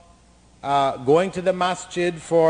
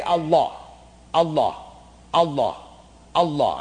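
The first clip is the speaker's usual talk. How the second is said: repeating the name; 4 semitones lower than usual. Shown as a demonstration. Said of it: "keep repeating that over and over".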